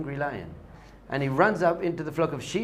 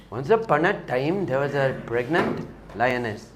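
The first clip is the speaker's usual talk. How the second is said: put-on storytelling in a muddled Indian-Israeli accent; put-on guru accent. Rabbi retelling a guru's story from India, in a put-on accent. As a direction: tell it in a badly placed guru accent. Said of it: "It's probably Israeli, actually".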